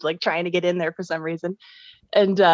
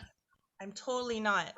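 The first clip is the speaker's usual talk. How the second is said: muffled phone mic; 11 dB quieter, slower than usual. Real, not acted. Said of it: "like you're covering the speaker's microphone".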